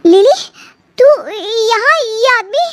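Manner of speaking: sudden loud startled call; shocked gasp of a name. Acted. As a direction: jump at finding her there. Bhabhi startled finding Lily.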